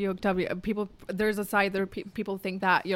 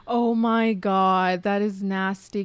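gasping, slow, disgusted; shocked gasp; much slower than usual. Real, not acted. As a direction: gasp then drag it out in shock. Shocked reaction to gossip.

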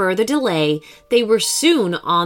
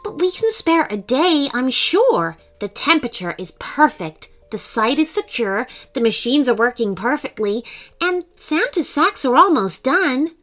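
dismissive; 5 semitones higher than usual. Acted. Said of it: "dismissing their worries".

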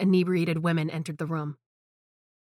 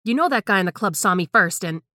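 put-on loud drunken rant; 6 dB louder than usual. Drunk Tara rants about club.

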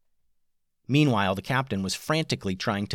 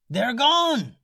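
amazed report; 3 dB louder than usual. A narrator's reading. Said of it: "said the captain".

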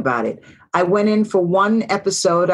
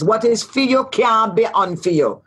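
put-on Jamaican accent; 3 semitones higher than usual. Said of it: "another saying in Jamaica".

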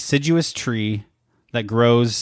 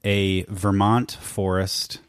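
put-on New England accent. Host setting a Vermont forest scene, put-on New England accent. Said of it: "Just switched just like that".

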